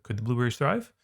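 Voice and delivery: Could the blueberries thrive? rising at the end; rising question intonation; question tune. Shown as a demonstration. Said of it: "we have to ask it just like we would".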